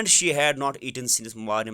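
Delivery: drawn-out classroom reading; slow reading aloud. Shown as a demonstration. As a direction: read it slowly for the students. Teacher reads English text aloud. (آہستہ آہستہ پڑھنا)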